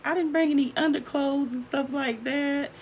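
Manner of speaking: light, high-pitched retold reply; laughing daughter, imitated. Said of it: "as she's laughing".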